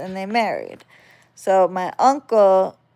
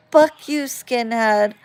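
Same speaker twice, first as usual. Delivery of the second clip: put-on kid's taunt; 4 semitones higher than usual.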